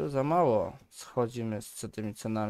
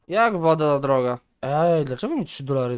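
indignant surprise; 6 dB louder than usual. Real, not acted. Shocked by water price.

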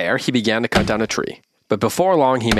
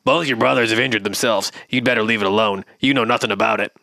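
giant frog voice. Acted. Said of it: "His father's a giant frog".

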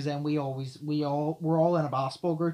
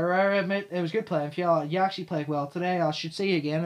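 fast and loud; 3 semitones higher, 5 dB louder than usual. Retold or imitated. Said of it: "I can talk really fast and loud".

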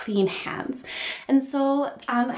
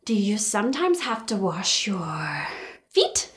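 whisper then squeal; 4 semitones lower, slower than usual. Acted.

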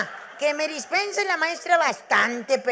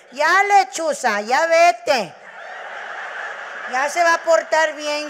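louder, slow address to the owl; mock dismissing the owl; 3 semitones higher, 5 dB louder than usual. Mother tells the owl to leave because the girl will behave. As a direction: shoo the owl away, playing along.

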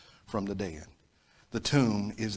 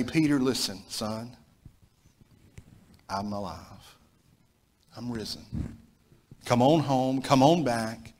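tender call. Retold or imitated. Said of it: "the Lord wanted to ... say".

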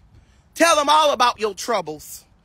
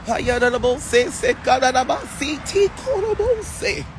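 rapid rhythmic glossolalia syllables; speaking in tongues. Real, not acted. Preacher praying in tongues on the live, rhythmic flow.

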